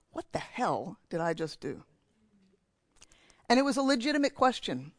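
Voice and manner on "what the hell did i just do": stunned inner thought. Retold or imitated. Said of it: "and thought".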